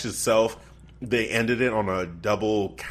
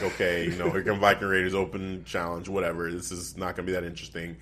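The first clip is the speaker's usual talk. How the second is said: dismissive; 5 semitones lower, 5 dB quieter than usual. Retold or imitated. Retelling own bored dismissal.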